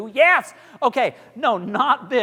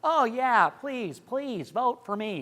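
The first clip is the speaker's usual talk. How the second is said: wrong way; 4 semitones higher, slower than usual. Shown as a demonstration. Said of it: "you can't go like this".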